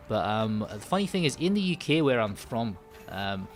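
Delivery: put-on Scottish accent in casual chat. Shown as a demonstration. Streamer chatting to viewers after switching, put-on Scottish accent. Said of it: "I go Scottish and I say".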